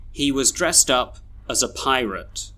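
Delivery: "was", "as", "a" and end of "pirate" reduced to uh; schwa weak forms. Shown as a demonstration. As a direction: say "pirate" as PIE-rut, small words weak. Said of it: "we should read these sentences like this".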